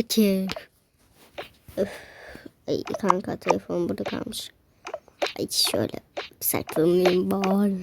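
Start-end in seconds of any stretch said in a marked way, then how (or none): 5.4-7.8 hushed whisper while hiding. Real, not acted. Whispering to viewers while hiding from her friend. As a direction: whisper so she isn't found.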